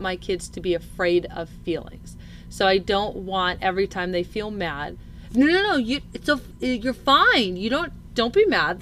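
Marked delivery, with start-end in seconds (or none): 5.3-8.8 mock parent jumping in to soothe, pitched up; imitated fussing parent. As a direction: act out a hasty parental reassurance. Voices parent hushing a child's anger.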